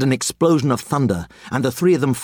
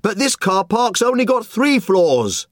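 moaning; 10 semitones higher than usual. Acted. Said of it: "the man moaned".

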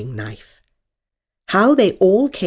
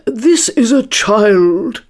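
loud, drawn-out eager announcement; higher-pitched, eager introduction; 5 semitones higher, 6 dB louder, much slower than usual. A narrator's reading. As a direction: present it proudly and eagerly, stretching the words. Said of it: "Hare replied eagerly".

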